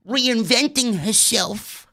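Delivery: soft, breathy mock fan voice, slowing at the end; hushed swooning imitation of online fans; lightly voiced gushing fan. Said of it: "People were going crazy on social media".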